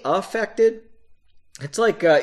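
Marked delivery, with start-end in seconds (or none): 0.0-0.8 "affected" with a clear opening A sound. Shown as a demonstration. Reader explaining usage, "affected" with a clear A. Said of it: "with the A".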